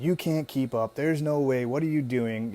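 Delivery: doubting inner voice. Retold or imitated. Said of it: "my mind's like".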